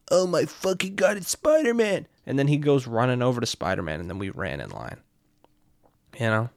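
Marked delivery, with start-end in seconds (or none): 0.1-2.1 rising, thrilled squeal of recognition; starstruck excitement. Retold or imitated. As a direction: gush at seeing Spider-Man. Drunk guy spotting Spider-Man.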